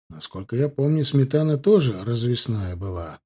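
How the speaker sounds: plain reading voice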